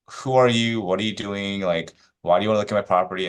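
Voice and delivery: mildly imitated nasty challenge; nasty agent. Agent confronting someone asking to see the property, mock nasty. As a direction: retell a nasty agent's demand. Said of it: "they're just really nasty about it".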